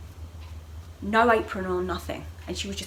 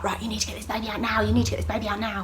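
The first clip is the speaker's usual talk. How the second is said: fast retold urgency; panicking staff; faster than usual. Staff flapping around woman in labour, quick urgent order. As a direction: rattle off a hurried order. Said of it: "everyone starts flapping and panicking".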